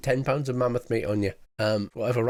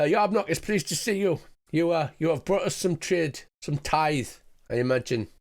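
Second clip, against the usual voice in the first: smiling goblin chief; 3 semitones higher than usual. Acted. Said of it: "smiles at you and says".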